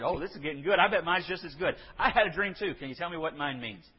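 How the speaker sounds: a baker jumping in, keen for good news; eager excited baker. Retold or imitated. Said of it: "He probably said".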